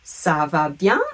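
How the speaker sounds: slow "Ça va bien", rising loudly on bien; drawn-out, upbeat-tuned "Ça va bien"; French model phrase. Shown as a demonstration. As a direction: model "Ça va bien" for learners, lifting bien. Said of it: "either the word bien".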